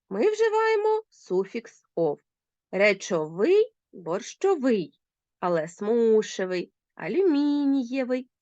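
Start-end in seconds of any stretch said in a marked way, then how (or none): 2.7-5.0 Речовий, борщовий drawn out with stress on the final -ВИЙ; stress on the ending. Shown as a demonstration. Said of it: "наголос переходить на закінчення". 5.7-8.3 смушевий, алюмінієвий slowly, stressed on СМУ and МІ; stress on the stem. Shown as a demonstration. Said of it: "Звернули увагу на наголос?".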